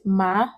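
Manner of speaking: MA rising in pitch; second tone. Shown as a demonstration. Teacher giving the second word, rising "ma". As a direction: lift "ma" upward like a question. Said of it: "The second one is".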